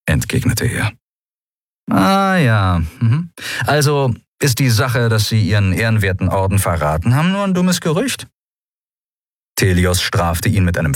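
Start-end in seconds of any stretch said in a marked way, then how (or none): 1.9-8.3 high mock-surprised sarcasm; cocky pirate mocking the admiral=20; Sephiron, sarcastic. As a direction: feign disbelief to needle him.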